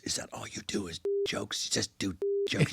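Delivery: hushed, unvoiced, very soft sneer; imitating Alan. Alan mocking a comic co-star, whispered disdain. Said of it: "he goes".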